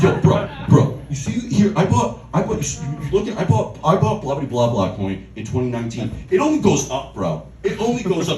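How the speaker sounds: hard sell, bro to bro, pushing the coin; aggressive crypto bro. Retold or imitated. The NFT friend pitching his coin, pushy and hyped. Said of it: "just all fucking aggressive".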